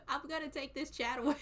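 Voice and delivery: threats broken up by giggles; laughing mock scolding. Real, not acted. Streamer threatening to move a misbehaving chat, laughing scolding. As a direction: scold while trying not to crack up.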